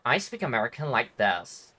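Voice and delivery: understated American accent parody; American accent, lightly put on; mock American accent. Shown as a demonstration. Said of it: "most of it's gonna be like".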